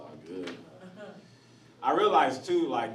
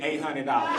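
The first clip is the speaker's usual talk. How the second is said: relayed price, delivered firmly and a bit louder; matter-of-fact go-between quoting a price; Jose; 4 dB louder than usual. Retold or imitated. Jose reporting back to his friends, firm announcement. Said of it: "Jose come back to us".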